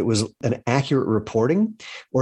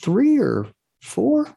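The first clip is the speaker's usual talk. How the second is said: very high, slow questioning voice; unsure guess; 14 semitones higher, much slower than usual. Retold or imitated. Mother guessing her number of children, slow and unsure. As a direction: imitate a mom guessing, drawn out and pitched right up.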